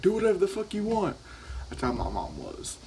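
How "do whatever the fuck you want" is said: high put-on voice of a parent who doesn't care; mock uninterested parent. Mom at home brushing it off, high mock voice. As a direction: toss it off as the careless mom. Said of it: "they're like".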